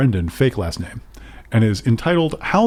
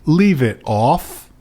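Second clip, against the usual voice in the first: slow, drawn-out mock cockney; a lightly put-on cockney warning; cockney line offered as the author's reply; cockney accent; 2 semitones higher, much slower than usual. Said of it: "He might say".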